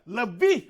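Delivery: lebih said with a slight rise; stress on lebih. Shown as a demonstration. Pastor having the church read lebih aloud. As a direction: point out the word lebih.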